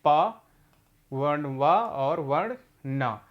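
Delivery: slow, letter by letter; teacher spells each letter to pupils, slowly; spelling out letters. Shown as a demonstration. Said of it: "छोटा ऊ लिखा गया है".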